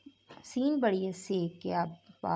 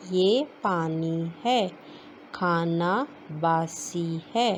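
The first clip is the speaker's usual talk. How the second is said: slow reading; 3 dB louder, slower than usual. Shown as a demonstration. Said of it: "جملے پڑھتے ہیں".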